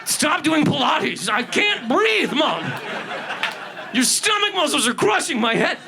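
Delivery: hammed-up squeezed baby; mock baby voice. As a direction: beg mom to stop from inside. Baby voiced from inside womb.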